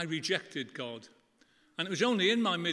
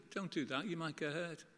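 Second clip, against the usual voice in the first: softer gentle parental warning; caring parent; 6 dB quieter than usual. Retold or imitated. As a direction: warn a child lovingly. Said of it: "what parents do with their children".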